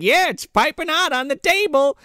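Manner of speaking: high, sweet housewife voice; Mrs. Claus voice. Retold or imitated. Retelling Mrs. Claus playing along, high sweet voice. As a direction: chirp it like a doting wife. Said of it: "Missus Claus is like".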